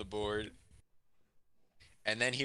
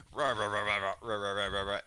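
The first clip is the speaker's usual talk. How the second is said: repeated nonsense rah-rah chatter; joking mock roar; 3 dB louder than usual. Student clowning for the whole class, joking mock roar. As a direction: play at roaring in even, running syllables. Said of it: "as a joke for the whole class".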